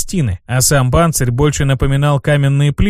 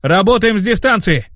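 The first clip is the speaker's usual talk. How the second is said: command; 6 semitones higher than usual. Acted. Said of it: "скомандовал".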